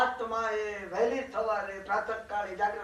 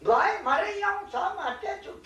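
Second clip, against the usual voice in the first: laughing mock complaint; 9 semitones higher than usual.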